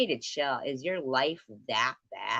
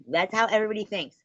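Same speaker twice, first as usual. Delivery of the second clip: raised, fast, heated; loud; 8 semitones higher, 6 dB louder, faster than usual. Real, not acted. Rising shout.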